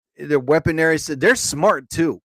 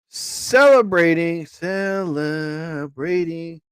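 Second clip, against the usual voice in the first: very slow, stretched syllables; slow word-by-word typing voice; drawn-out dictation; much slower than usual. Real, not acted. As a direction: sound it out slowly as if dictating. Typing out the translator input slowly.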